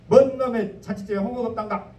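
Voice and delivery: loud, high Jeolla grumble at a feast; Jeolla dialect complaint. Retold or imitated. Wedding guest grumbling about missing hongeo, in Jeolla dialect. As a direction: scold like an old Jeolla guest. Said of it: "전라도에서는".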